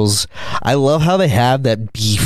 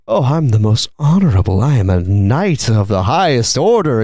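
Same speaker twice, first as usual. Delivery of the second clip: mock arrogant; 3 semitones lower than usual. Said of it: "He's so arrogant".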